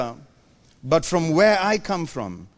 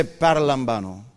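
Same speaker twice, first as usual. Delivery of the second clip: Birmingham accent; 6 semitones lower, 3 dB quieter than usual. Shown as a demonstration. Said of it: "Let's try it in Birmingham accent".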